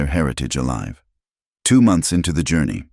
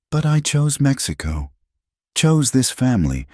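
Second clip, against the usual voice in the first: higher, a hint of proud defiance; lightly voiced defiant Clara; 3 semitones higher than usual. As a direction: Clara standing her ground, mildly voiced. Clara defies the captain.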